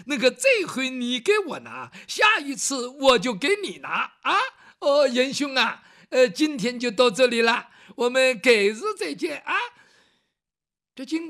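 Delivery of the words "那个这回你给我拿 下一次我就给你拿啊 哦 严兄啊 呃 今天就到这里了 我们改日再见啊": louder, breezy and pleased with himself; a smug master taking his leave loudly; breezy loud farewell. Acted. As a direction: brush off the bill and say goodbye heartily. Young master cheerfully slipping away.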